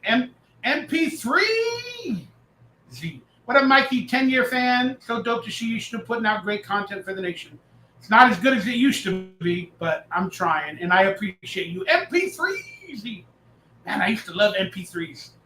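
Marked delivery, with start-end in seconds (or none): 0.1-3.2 very slow, letter by letter; slow spelling out. Real, not acted. Reading a hard username off the screen, letters spelt out slowly. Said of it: "Let me see if I can read it". 11.8-13.2 slow spelling out. Real, not acted. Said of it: "Let me see if I can read it".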